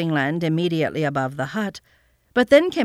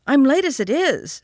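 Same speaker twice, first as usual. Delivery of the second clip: put-on boy's voice; 8 semitones higher, 3 dB louder than usual. A narrator's reading. Boy refusing the aunt.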